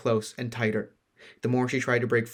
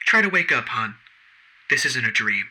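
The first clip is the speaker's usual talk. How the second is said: taunting villain; 5 dB louder than usual. Acted.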